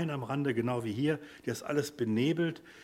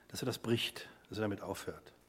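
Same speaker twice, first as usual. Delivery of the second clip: whisper; 5 semitones lower, 6 dB quieter than usual. Real, not acted. Preacher drops to a hush.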